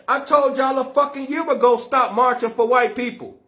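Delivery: blunt, real reprimand; harsh. Real, not acted. Speaker reminding followers of a year-old warning, harsh. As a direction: drive the reproach home harshly. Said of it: "I'm saying it so harshly".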